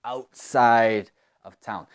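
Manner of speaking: Outside of town said slowly, every syllable clear; slow demo. Shown as a demonstration. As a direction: spell it out for learners. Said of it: "afuera de la ciudad".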